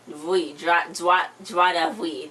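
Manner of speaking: slowly sounding out "joie de vie" as "zhwah duh vee"; French phrase. Shown as a demonstration. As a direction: carefully repeat "joie de vie" to get the French right. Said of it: "That's what she said".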